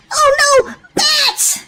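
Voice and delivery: high mock-frightened yelp with a laugh; high playful fright; startled. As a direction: squeal at the bats for the kids. Willy startled by bats in cave.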